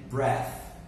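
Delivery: "breath" with a short e, ending in th; careful pronunciation of breath. Shown as a demonstration. Teacher contrasts two similar words for students, careful "breath". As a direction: model "breath" clearly, short vowel. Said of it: "They have different pronunciations".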